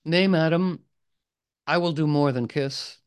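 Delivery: a touch of noble knight resolve; gallant Gawain. Acted. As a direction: Gawain nobly answering his bride's request. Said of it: "he says".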